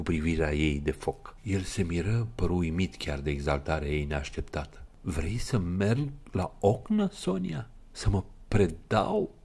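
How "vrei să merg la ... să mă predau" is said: slow, sombre question; gloomy. Acted. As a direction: ask it darkly, slowly. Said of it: "întrebă el posomorât". (întrebare posomorâtă, rară)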